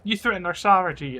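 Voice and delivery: high, loud sneering imitation; mock outrage again. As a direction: ham up their wounded pride. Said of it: "And they're like".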